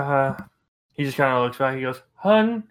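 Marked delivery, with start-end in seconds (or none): 2.2-2.6 raised, louder southern drawl calling to a spouse; southern husband calling his wife; southern accent. Acted. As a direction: call "hun" in a light southern accent. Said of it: "I'm throwing a southern accent".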